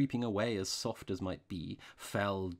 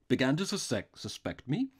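louder, incredulous repeat; increased intensity; 3 semitones higher, 5 dB louder than usual. A narrator's reading. Outlaw learns the priest suspected him, intensely. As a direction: throw it back with intensity. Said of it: "repeated the outlaw with increased intensity".

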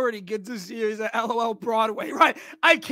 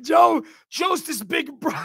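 slow, loud, higher mock rant with a laugh; mock angry dad; 4 semitones higher, 5 dB louder than usual. Streamer imitating the dad yelling at Joe, hammed-up shout. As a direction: bellow it like a hammed-up mob dad. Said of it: "He's like".

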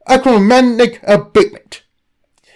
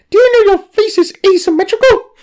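mascot's rude jab; 11 semitones higher, faster than usual. Acted. Mascot suddenly insults interviewer.

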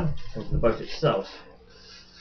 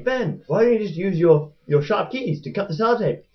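higher-pitched, louder mock viewer question; pitched-up imitation of an audience objection; imagined viewers asking; 9 semitones higher, 4 dB louder than usual. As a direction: put on a high voice of a pestering viewer. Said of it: "a lot of you are probably thinking".

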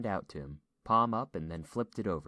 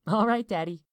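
put-on high, loud child voice; giggly little girl; 11 dB louder than usual. A narrator's reading. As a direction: answer Dad as an amused small daughter. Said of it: "Lisa giggled".

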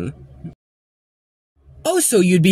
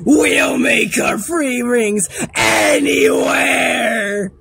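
cloud; slower than usual. Acted. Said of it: "Said the cloud with daring air".

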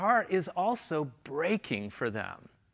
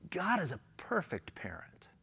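whispered; 6 dB quieter than usual. Real, not acted. Hushed key line after contrast.

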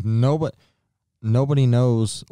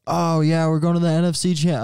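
dopey Gronk correcting; 7 semitones higher than usual. Retold or imitated. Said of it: "And then he was like".

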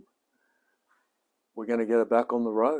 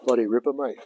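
louder, punchy exclamation; loud exclaim; 6 dB louder, faster than usual. Real, not acted. Shouting his delight over the car. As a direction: call it out with delight.

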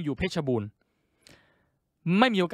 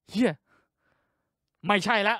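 usual speaking voice

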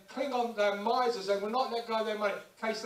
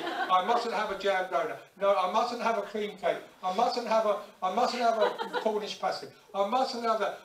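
laughing self-denial; 3 dB louder than usual. Retold or imitated. Dieter tempted in cake shop.

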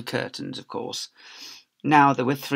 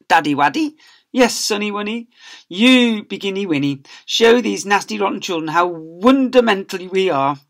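put-on high, louder sugary baby talk; gushing child; 6 semitones higher, 7 dB louder than usual. Pupil gushing to his papa, high baby talk. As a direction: coo it like a teacher's pet. Family cooing at each other.

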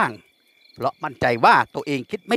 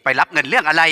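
feigned puzzlement; 2 semitones higher, much slower than usual. A narrator's reading. Duan fakes confusion to his captor, mock puzzled. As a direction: play it as put-on surprise. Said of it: "ทำเสียงดังเหมือนคนรู้สึกฉงนฉงาย".

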